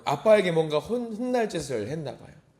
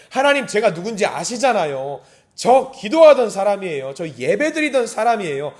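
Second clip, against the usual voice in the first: loud, higher-pitched appeal to God; bold, confident plea; 5 semitones higher, 8 dB louder than usual. Acted. Worshipper in trouble reminding God who they are, boldly pleading. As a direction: press your case boldly, punching it out. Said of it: "당당하게 하나님 앞에 내밀면서 나가는 거예요".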